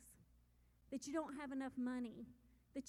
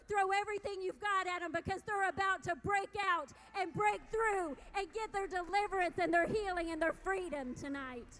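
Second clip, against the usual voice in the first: screaming; 3 semitones higher, 6 dB louder than usual. Retold or imitated. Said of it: "the enemy went screaming".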